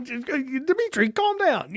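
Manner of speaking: high, slow, coaxing mock-calm voice; soothing president impression. President soothing the Russian premier on the phone, mock-calm. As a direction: talk him down like a nervous friend. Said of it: "he's just like".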